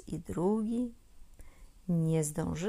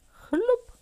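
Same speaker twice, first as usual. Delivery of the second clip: much higher, much louder splash cry; big splash; 9 dB louder than usual. A narrator's reading. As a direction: shout the splash as she hits water. Splash into the pond. (głośne, wysokie chlup)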